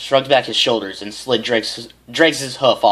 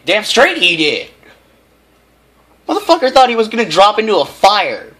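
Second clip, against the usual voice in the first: gleeful aside; 10 semitones higher, 6 dB louder than usual. Acted. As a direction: crow about it. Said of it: "narrator breaks into own comment".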